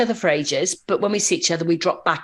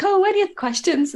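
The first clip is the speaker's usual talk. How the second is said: flustered teacher; 12 semitones higher than usual. Retold or imitated. Teacher moves pupils hastily on.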